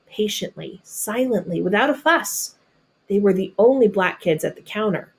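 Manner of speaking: expressive storybook reading voice; reading to children. Acted. Teacher reading a picture book to her students, storybook narration. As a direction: read it like a picture book to a class.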